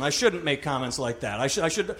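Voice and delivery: hushed pretend remorse; mock contrition. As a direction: confess in a small repentant voice. Mock repentance before skinny jokes.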